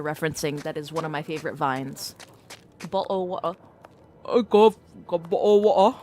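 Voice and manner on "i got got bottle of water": imitating vine line.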